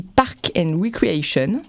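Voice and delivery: put-on "Park and Recreation" in a slow English accent. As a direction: say the title slowly with an English accent. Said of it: "Vous admirez mon accent anglais".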